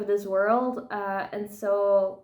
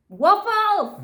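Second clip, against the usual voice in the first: excited cheer; 10 semitones higher, 5 dB louder than usual. Real, not acted. Cheering their favorite snack choice.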